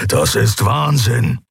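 slow, rumbling growl. Acted. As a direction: grumble it out slowly. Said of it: "grollte Keru".

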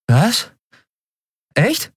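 can't believe his luck; stunned disbelief. Acted. Miko reacting to being hired, squeaky and stunned.

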